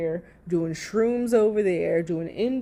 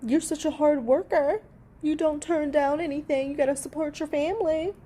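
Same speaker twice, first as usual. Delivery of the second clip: higher, sing-song mocking praise; fake-sweet compliment dripping with sarcasm; sarcastic mock praise; 7 semitones higher than usual. Real, not acted. Vlogger mocking Amber's Depends ad, fake-sweet sarcasm.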